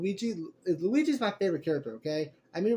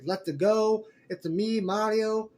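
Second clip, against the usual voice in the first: lightly imitated catchphrases, close to usual voice; Chris Pratt's Mario; 3 semitones higher, slower than usual. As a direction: quote the hero's catchphrases with only a hint of character. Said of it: "The way he said some of Mario's catchphrases".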